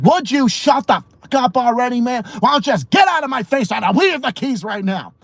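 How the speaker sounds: high-pitched imitated yelling; exasperated mock tirade; Sonya. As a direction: shout someone down, fed up. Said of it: "Sonya fucking screaming at people".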